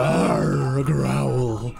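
weak little monster. Pretend. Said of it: "sounds like a weak little monster".

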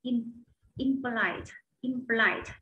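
impolite with stress on LITE, slow; stress on third syllable. Shown as a demonstration. Teacher models impolite, stressing the third syllable. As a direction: lean on the last syllable of impolite. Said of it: "Nhấn vào âm ba nhé các bạn".

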